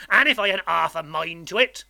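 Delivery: loud, rough-spoken menace; threatening convict. A narrator's reading. Convict finishes his threat to boy, menacing. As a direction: let the threat hang over him. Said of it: "with a threatening shake of his head".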